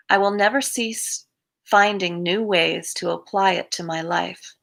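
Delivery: measured daily-reading voice, falling phrase ends; reading aloud. Acted. Reading an Al-Anon meditation to viewers, evenly paced. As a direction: read it out evenly, pausing between phrases.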